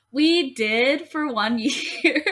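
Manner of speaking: giggling through the words; laughing. Real, not acted. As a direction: laugh while you say it. Laughing about the Christmas tree.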